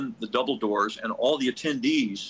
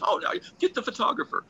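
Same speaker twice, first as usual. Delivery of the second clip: president obliging. Retold or imitated. President voiced in an anecdote.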